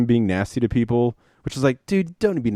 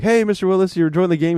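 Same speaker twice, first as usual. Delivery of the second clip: higher, chatty imitation of a live interviewer; mock reporter small talk, pitched up; 8 semitones higher than usual. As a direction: put on an upbeat courtside-interview voice. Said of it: "one reporter".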